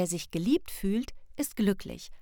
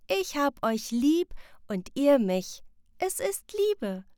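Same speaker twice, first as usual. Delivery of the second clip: put-on child voice, higher and louder, slowing on Liebe; beaming child; 7 semitones higher, 4 dB louder than usual. Sam telling parents it is love, beaming. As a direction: glow with the answer.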